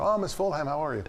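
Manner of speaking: butter her up to stall; retold overly sweet greeting; imitating a fawning colleague. Lou covers, fawning greeting.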